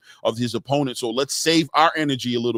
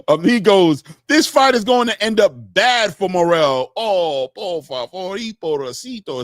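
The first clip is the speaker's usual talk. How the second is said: louder, higher hammed-up Mexican Spanish accent on "Amigos"; mock Mexican Spanish accent, Scarface style; playful Mexican Spanish accent; 6 semitones higher, 6 dB louder, slower than usual. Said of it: "Is that how he said it?".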